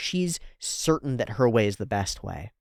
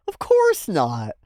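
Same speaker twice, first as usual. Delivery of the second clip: slow, louder haughty retort; mock sneer; 3 semitones higher, 5 dB louder, slower than usual. Mage answering the expert, slow haughty sneer. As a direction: drag it out with disdain.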